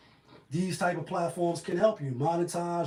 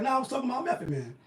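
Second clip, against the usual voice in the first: quoting her, fast and higher; 6 semitones higher, much faster than usual. Retold or imitated.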